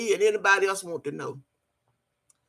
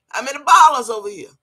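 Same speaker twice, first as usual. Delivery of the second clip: indignant shout; 3 semitones higher, 8 dB louder, faster than usual. Real, not acted. Repeats challenge, much louder.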